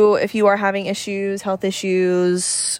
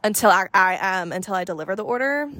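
wired, jittery caffeinated rush; talking hopped up on coffee; too much caffeine. Real, not acted. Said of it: "I'm really caffeinated right now".

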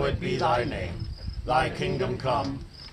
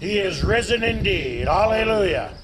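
joyful acclamation; 5 semitones higher, 5 dB louder than usual. Real, not acted. Easter acclamation response.

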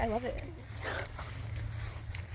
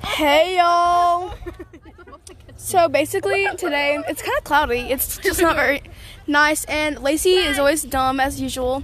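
frat bro; 4 dB louder than usual. Pretend. Mock podcast intro to camera.

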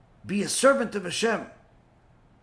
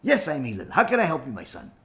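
calm reply; 5 semitones lower than usual. Retold or imitated. Patient answer.

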